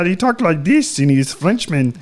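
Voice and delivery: lightly put-on French accent, drawn out; French Kermit the Frog. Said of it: "like a French Kermit the Frog".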